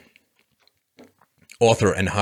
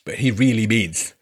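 mock echo. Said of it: "echoing the quote mockingly".

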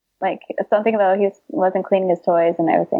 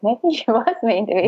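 laughing realization; 4 semitones higher than usual. Retold or imitated. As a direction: say it through a small laugh. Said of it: "I was like".

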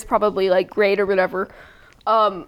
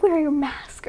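lightly voiced nagging Karen, higher; a hint of a higher-pitched scold; mask Karen; 5 semitones higher, 3 dB quieter, slower than usual. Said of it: "a, a mask Karen".

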